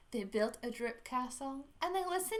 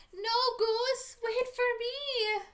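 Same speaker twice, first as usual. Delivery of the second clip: much higher, slower call; 12 semitones higher, 5 dB louder, much slower than usual. Acted. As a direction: plead for him to wait. Duck calls after running goose.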